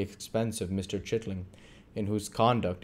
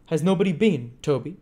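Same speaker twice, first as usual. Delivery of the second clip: Fagin voice; 9 semitones higher, 7 dB louder than usual. A narrator's reading. Fagin voiced in read story.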